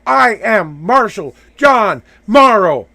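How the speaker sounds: slow, deliberate self-declaration. Real, not acted. Man claiming his new name, slow and deliberate. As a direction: say your new name slowly, owning it. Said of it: "Say it".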